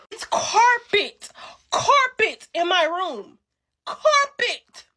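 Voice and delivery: slow, drawn-out scorn on carpet; disgusted emphasis. Real, not acted. Mocking the carpeted one-bedroom, slow scornful drawl. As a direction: drag the word carpet out in disdain.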